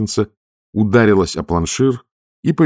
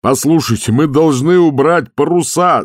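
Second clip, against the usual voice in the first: yelling; 8 semitones higher, 5 dB louder than usual. A narrator's reading. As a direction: shout it over the storm. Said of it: "заорал Дженкинс". (шкипер орёт Ваймсу, громко и отчаянно)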